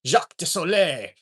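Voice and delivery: character name in fake French; mock French accent. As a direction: announce yourself as a mock Frenchman. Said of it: "my ongoing bit character".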